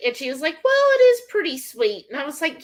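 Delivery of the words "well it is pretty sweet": high mock-mom voice, grudgingly giving in; imitating mom. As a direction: pitch it up like mom finally admitting it. Mom conceding again, retold.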